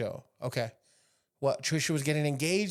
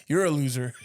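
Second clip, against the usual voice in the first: Biden impression; 4 dB louder than usual. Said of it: "I got a Biden impression".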